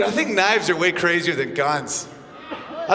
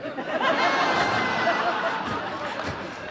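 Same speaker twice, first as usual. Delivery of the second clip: a high airy burst of laughter; high breathy laugh; 6 dB quieter than usual. Real, not acted. Comic cracking up at his own punchline, airy laugh.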